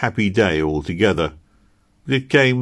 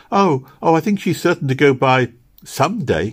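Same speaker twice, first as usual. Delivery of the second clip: higher, louder eager protest; crying out; 7 semitones higher, 3 dB louder than usual. A narrator's reading. Little girl contradicting Kitty about Posy, crying out. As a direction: cry it out hopefully as little Meg. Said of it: "cried Meg".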